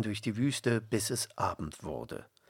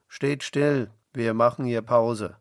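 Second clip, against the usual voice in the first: Saul shouting orders to his soldiers; calling out; 8 dB louder than usual. A narrator's reading. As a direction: call it loud across the camp. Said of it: "Er rief seinen Soldaten zu".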